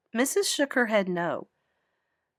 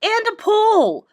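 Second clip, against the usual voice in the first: louder, boastful outburst; a girl shouting her trump card at her rivals; real loud; 7 semitones higher, 8 dB louder than usual. A narrator's reading. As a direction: shout the boast over everyone. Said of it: "she said real loud".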